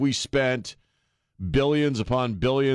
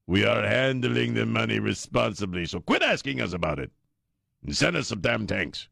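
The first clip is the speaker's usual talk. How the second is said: put-on Zelensky Ukrainian accent. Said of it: "this is my Ukrainian voice".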